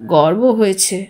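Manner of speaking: a touch of a husky, grieving father; hoarse voice. A narrator's reading. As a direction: croak it out, throat tight. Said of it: "ঘর ঘরে গলায় বলল".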